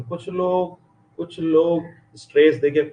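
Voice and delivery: कुछ लोग said with a lifted, pushed stress; stress demo. Shown as a demonstration. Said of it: "जैसे देखिए".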